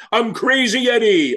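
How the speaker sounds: high, slow hammed-up announcer. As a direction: shout it like a TV pitchman. Hams up his own nickname.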